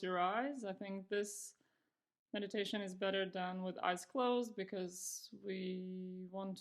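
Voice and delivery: calm, unhurried meditation guidance with long pauses; guided meditation. Real, not acted. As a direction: ease them into practice, pausing between phrases. Begins guiding the meditation.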